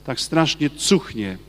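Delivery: lightly voiced possessed man, slow and drawn out; a hint of a demon spitting out disgust, slowly; slow demon sneer. Possessed man sneering at the saint's relic, slow mild disgust. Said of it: "Mówi".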